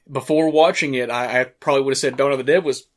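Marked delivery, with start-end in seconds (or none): 1.1-2.9 talking through hiccups; hiccuping between words. Real, not acted. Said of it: "Excuse me, I've got the hiccups".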